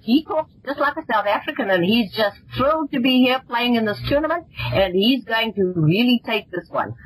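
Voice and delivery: half-hearted impression of a South African golfer; Ernie Els. Shown as a demonstration. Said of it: "I do an impression of Ernie Els".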